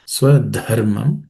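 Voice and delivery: Swadharmam slowly, with a puff on "dha"; aspirated DH. Shown as a demonstration. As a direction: draw out Swadharmam, breathing out on the "dha". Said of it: "letter Dha is again aspirated".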